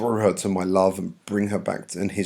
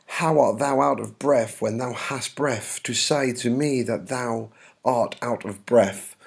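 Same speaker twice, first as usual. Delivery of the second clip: exasperated verse reading; 3 semitones higher than usual. Acted. Juliet challenging the breathless nurse, mildly exasperated. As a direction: read it as a mildly indignant Juliet.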